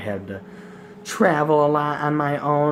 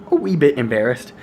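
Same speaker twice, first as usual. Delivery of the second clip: "wee" leaned on, louder; stress on wee; 5 dB louder than usual. Shown as a demonstration. Vlogger joking to viewers, "wee" stressed and louder. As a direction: punch the word "wee". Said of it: "Emphasis on the wee".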